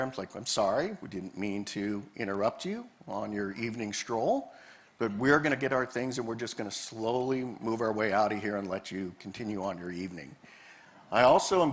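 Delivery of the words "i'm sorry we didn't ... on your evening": apologetic. Retold or imitated. Ranger apologizing to the bear, softly apologetic. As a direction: retell a gentle, careful apology. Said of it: "I apologize to the bear".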